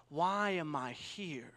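slow, hushed rhetorical question; whisper. Acted. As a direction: lean in and whisper it. Preacher poses searching question.

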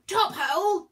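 loud, high hearty call; booming, high-pitched jolly yell; yelling back. A narrator's reading. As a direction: yell back approval with gusto. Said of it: "Zeus yelled back".

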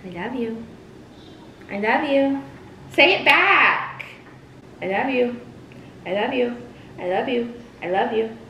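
clingy pleading; mood swings. Acted. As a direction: beg softly, then demand. Clingy repeated I love you.

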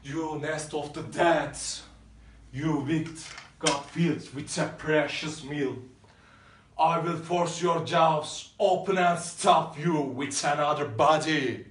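raging at tomb. Acted.

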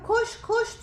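imitated coaxing call.

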